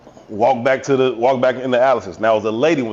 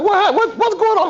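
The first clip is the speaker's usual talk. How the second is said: very high, startled mother; a high alarmed question from the car; imitating mama. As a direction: squeak it out like a surprised mom. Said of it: "she like".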